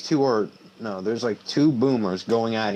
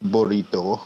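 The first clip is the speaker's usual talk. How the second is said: overacted anime dub. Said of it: "Sounds like an anime character".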